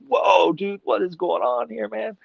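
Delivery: high-pitched imitation of stunned visitors; amazed customers. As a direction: act out a customer's astonished reaction. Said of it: "they're gonna be like".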